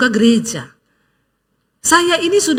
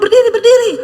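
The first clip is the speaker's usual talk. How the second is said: laughing urging; 6 semitones higher, 4 dB louder, faster than usual. Retold or imitated. Urging crying couple to stand.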